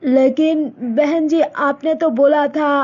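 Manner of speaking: mother telling daughter about a proposal; Malti's mother. Acted. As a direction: speak as a set-in-her-ways village mother. Mother protests on phone.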